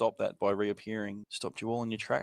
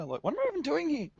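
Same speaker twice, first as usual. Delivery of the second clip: high giggly voice, much higher; laughing; 13 semitones higher than usual. Real, not acted. Joking with a friend about the pointless channel, high and giggling. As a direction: laugh through the words.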